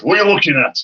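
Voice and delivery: retold West Yorkshire confrontation, pitch jumping up; West Yorkshire accent. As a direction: mimic a gruff "what's it to you" in broad West Yorkshire. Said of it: "in his like, West Yorkshire accent".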